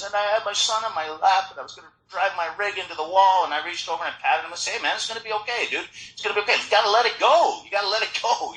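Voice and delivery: high-pitched mock tearful telling; hammed-up weepy confession; imitated crying. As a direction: mimic a tearful man pouring out his story. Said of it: "he's crying, and he says".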